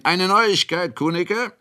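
high, loud forced-jolly call. A narrator's reading. Ratschek calls into the wine room with forced cheer. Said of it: "rief hinein".

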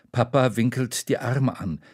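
usual speaking voice

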